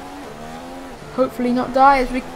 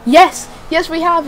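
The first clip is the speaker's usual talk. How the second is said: excited cheer; 5 semitones higher, 3 dB louder than usual. Real, not acted. Celebrating a successful overtake.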